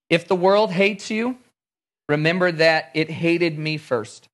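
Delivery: measured, emphatic reading of the verses; scripture reading. Acted. Preacher reading John fifteen to the congregation, measured and earnest. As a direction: read Jesus' words to the disciples with weight.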